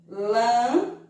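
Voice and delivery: "Lançamento" broken into lan, ça, men, to with pauses; syllable by syllable. Shown as a demonstration. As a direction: separate every syllable of "Lançamento", holding lan and men in the nose. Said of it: "duas sílabas de som nasal".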